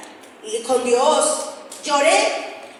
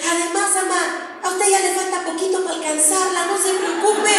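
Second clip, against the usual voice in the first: higher-pitched eager reassurance; consoling daughter; 6 semitones higher than usual. Retold or imitated. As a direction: try to cheer up a crying mother. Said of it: "la quise consolar y le dije".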